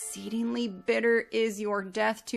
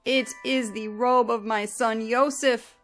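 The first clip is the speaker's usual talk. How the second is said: loud weeping cry; 3 semitones higher, 4 dB louder than usual. Acted. Yaakov recognizing his son's bloodied robe, loud weeping cry. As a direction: cry it out as if your heart just broke. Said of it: "cried out with a loud and weeping voice".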